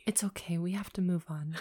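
whisper. Pretend. Whispered reassurance.

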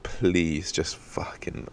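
whispered plea; desperate whisper. Retold or imitated. Watching from the skylight, whispering a plea. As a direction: beg silently under your breath. Hiding, hoping the lie holds.

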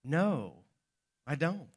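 dry, understated sarcasm; sarcastic. Acted. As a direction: answer with quiet, dismissive sarcasm. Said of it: "answered sarcastically".

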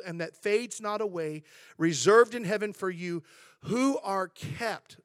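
measured scripture reading, slowing at the end. Acted. Pastor reading scripture to the church, measured and weighty. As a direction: read the verse with weight.

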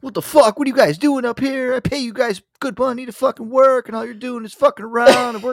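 high, loud scolding tirade; hammed-up boss rant. Cousin Mike storming upstairs to scold the slacking workers, high and loud. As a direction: tear into lazy workers like an overbearing boss.

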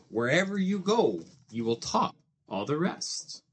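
lively rhyming storybook reading with playful swings; reading to children. A narrator's reading. Dad reading a Seuss book to his child, lively storybook voice. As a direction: read it like a bedtime picture book, bouncing the rhymes.

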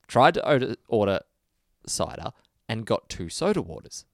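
imitated Dublin Irish, lightly done; a touch of Irish on "order cider"; Dublin Irish accent. Retelling the Irishman's bar order, imitated Dublin Irish accent. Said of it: "in his thick Dublin Irish accent".

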